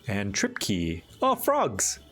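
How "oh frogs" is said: excited. Real, not acted. Delighted at frog ancestry.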